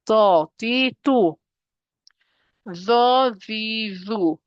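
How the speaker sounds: weighty do di du; heavy letter. Shown as a demonstration. Teacher to students, demonstrating a heavy do di du. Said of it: "Heavy letter again".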